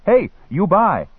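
high, loud vendor's call; drawn-out shout to a customer. A narrator's reading. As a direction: holler it slowly to a passer-by. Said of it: "He called out".

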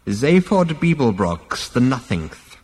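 slow, high, drawn-out proclamation; scornful old ancestor. A narrator's reading. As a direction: spit out the name with withering disdain. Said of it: "spat the figure".

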